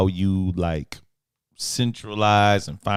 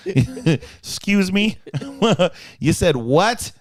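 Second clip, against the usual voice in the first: shocked disbelief; 8 semitones higher, much slower than usual. Retold or imitated. Shocked reaction, laughing.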